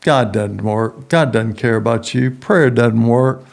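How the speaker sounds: a hint of a mocking little devil; taunting devil. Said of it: "the little devil's on my shoulder going".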